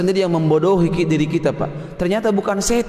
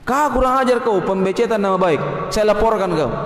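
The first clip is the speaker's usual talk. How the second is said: mildly indignant threat; mock angry. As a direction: act out someone offended, about to report it. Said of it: "Kan marah dia". (pura-pura marah, agak tersinggung)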